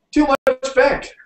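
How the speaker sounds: high, loud, drawn-out yell; shouted warning. A narrator's reading. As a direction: holler slowly from the back seat. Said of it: "shouted Stuffy from the back seat".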